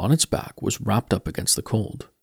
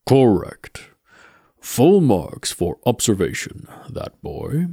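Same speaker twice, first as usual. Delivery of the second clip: Death's voice; slower than usual. Acted. Death answers Mort.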